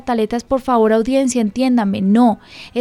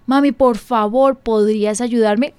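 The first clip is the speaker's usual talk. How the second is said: put-on whispered child's plea. Mother voices child asking politely.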